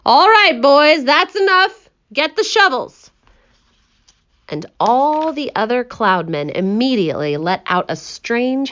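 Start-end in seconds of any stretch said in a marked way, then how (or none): 0.1-3.1 higher, louder shouted order; shouting. Acted. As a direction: call the crew to work, slowing on enough. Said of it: "they heard him shouting".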